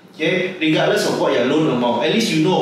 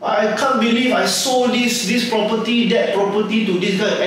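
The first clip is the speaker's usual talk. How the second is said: higher, slow gloating over a big sale; mock-thrilled agent; 4 semitones higher than usual. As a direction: ham up a giddy agent who just landed a whale, drawn out. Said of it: "you can imagine the agent doing this".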